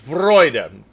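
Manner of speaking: Freude with a rolled R and strong F. Shown as a demonstration. Choir director modeling Freude for tenors, rolled R. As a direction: roll the R in Freude, Germanic oi. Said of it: "a good F and rolled R on Freude".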